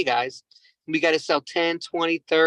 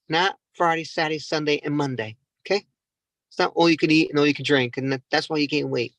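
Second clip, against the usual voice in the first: mock scolding. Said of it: "This is what I told her".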